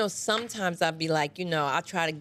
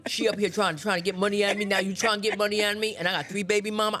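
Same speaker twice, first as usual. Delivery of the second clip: Keyshawn voice. Acted. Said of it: "I'll be playing like that".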